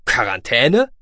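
loud, incredulous question with a sharp rise; startled query. A narrator's reading. Radio officer querying Goloshir's claim, startled. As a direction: query it in disbelief. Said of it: "hakte der Funkoffizier nach".

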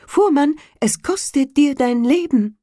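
high, loud bird voice threatening; menacing sparrow. A narrator's reading. Sparrow threatening the carter's life, high and loud. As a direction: warn him like a vengeful bird.

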